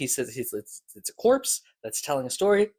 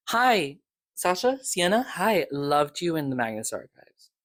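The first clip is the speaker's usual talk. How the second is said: excited greeting; 4 semitones higher than usual. Real, not acted. Fan greeting to the actor.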